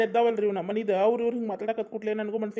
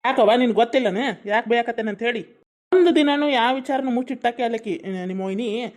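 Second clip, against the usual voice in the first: loud, indignant retort; heated brother answering back; angry; 5 dB louder than usual. Acted. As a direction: justify the scolding with some heat. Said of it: "ನೀನು ಸಿಟ್ಟು ಕಡಿಮೆ ಮಾಡ್ಕೊ".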